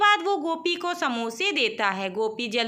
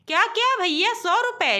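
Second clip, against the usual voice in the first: higher, startled cry at the price; shocked surprise; 5 semitones higher than usual. Acted. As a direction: gasp it out, stunned by the bill. Gopi shocked at samosa bill. (चौंककर, ऊँची आवाज़ में हैरानी)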